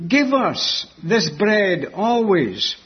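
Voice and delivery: slowly plead, leaning on the word give; stress on GIVE. Acted. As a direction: GIVE set apart at the start, slow phrase. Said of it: "they're putting emphasis on the word give".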